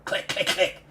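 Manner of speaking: quick voiceless clicks; imitated clicking noise; creature clicking. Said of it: "Pickles, like, clicks at you".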